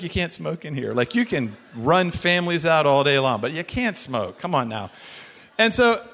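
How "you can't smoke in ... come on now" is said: waitress. Retold or imitated. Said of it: "the waitress comes over and she's like".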